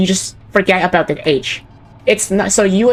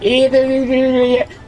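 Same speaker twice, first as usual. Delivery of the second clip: mock Newfie babble, pitched up; strong accent gibberish; 5 semitones higher, slower than usual. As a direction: imitate an unintelligible thick Newfoundland accent. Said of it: "strong accents".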